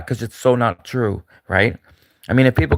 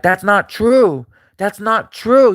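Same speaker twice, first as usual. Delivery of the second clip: much higher, slow, louder indignant protest; mock Candace Owens; 8 semitones higher, 4 dB louder, much slower than usual. Imitating Candace Owens denying the spy claim, shrill protest. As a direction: squeal the denial, scandalised. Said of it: "she's like".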